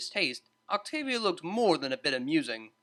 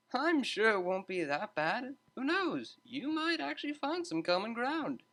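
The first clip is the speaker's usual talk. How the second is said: high, bright-toned teacher breaking up a fight; a lively tutor stepping in to calm two students; cheery tutor voice; 8 semitones higher than usual. A narrator's reading. Tutor calming arguing students, high cheerful voice.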